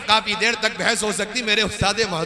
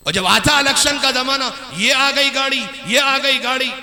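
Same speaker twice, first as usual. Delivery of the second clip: forceful, raised sermon delivery; preaching; 5 semitones higher than usual. Acted. Preacher scolding showy charity, preaching. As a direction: preach it out to the crowd.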